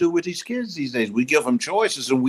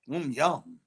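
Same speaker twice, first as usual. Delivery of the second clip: savoring predator voice. Acted. Dinosaur savoring kid.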